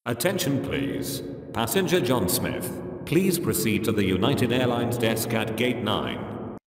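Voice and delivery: echoing railway station announcement; station announcement with reverb. Shown as a demonstration. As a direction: announce it like a big echoing hall. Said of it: "my voice sounds as if I would make an announcement at a railway station".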